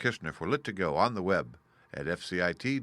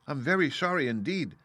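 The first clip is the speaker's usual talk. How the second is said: frightened apology; 6 semitones higher than usual. A narrator's reading. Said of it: "truly frightened".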